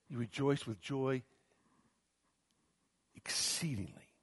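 trailing into a whisper; hushed rejoicing. Acted. Peter telling sufferers to rejoice, fading to a whisper. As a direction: breathe the last word almost silently. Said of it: "Peter says".

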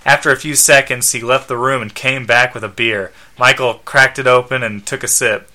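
measured read-aloud narration; story narration. A narrator's reading. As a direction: narrate the scene plainly, ends of sentences falling. Reads the comic story aloud.

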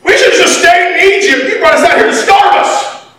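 high, whiny mock complaint; hammed-up grumbling crowd; grumbling Israelites. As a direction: whine it like ungrateful grumblers. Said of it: "and they start saying".

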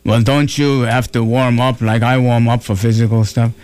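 Arnold. Retold or imitated. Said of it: "he said to me".

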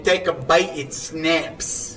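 Italian voice. Pretend. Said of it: "Johnny's bad Italian voice".

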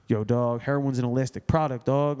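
mock Baltimore dude talk; imitated Baltimore accent. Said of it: "his accent and shit would go".

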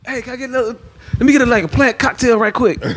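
lightly voiced, asking nicely; a hint of a nervous prince. T'Challa voiced asking for plant.

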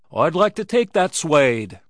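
high, loud Irish brogue; impassioned brogue outcry; wailing Irish brogue. A narrator's reading. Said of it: "burst into sudden brogue".

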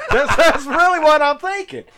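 says it through a real laugh, pitched high; cracking up mid-sentence. Real, not acted. Laughing while retelling his assumption.

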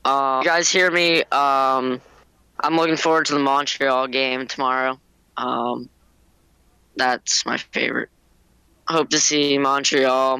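choppy phone line; cutting in and out; bad connection. Real, not acted. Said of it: "my connection's really bad right now".

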